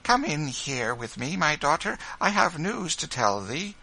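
high, kindly motherly voice; gentle. A narrator's reading. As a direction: invite her in gently. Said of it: "said gently".

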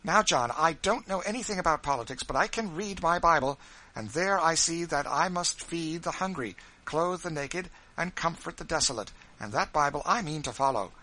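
arguing from scripture with fire; impassioned wife. Acted.

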